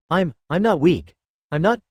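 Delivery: high, tearful, breath hitching; hiccuping sobs. Acted. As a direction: choke it out between hiccups. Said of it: "Mimi hiccuped, her breath hitching".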